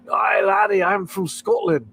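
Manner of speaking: high, hammed-up Scottish shout; fake Scottish accent. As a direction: do a mock Scotsman's hearty Scottish greeting. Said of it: "like, Scottish and".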